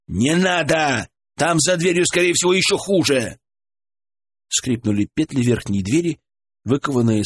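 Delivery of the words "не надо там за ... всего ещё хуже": urgent shout. Acted. Urgent shouted warning upstairs.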